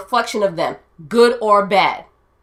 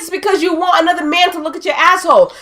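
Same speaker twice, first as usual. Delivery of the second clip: emphatic; 6 semitones higher than usual. Real, not acted. Insisting over the host.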